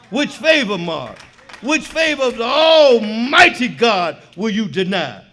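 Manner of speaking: lightly voiced mentor, rising in force; Salam G's voice. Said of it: "I hear Salam G's voice".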